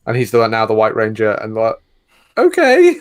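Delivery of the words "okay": very high squeaky okay; mock bewildered okay. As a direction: squeak it out, baffled. Mock acceptance of plot twist.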